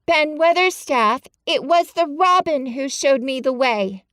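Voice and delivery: high, loud call upward; breathless call. A narrator's reading. Mary calls up to Ben, breathless and high. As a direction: gasp it out to him. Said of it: "called up to him with a sort of gasp".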